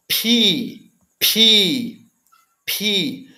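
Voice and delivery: pi with a puff of air on the P; aspirated pi. Shown as a demonstration. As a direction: say pi, breathing out hard on the P. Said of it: "O pi é como se fosse o P aspirado".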